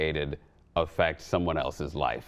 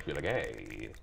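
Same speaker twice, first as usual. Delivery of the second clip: scary princess voice; 8 semitones lower, 9 dB quieter, slower than usual. Pretend. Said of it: "the voice of a scary princess".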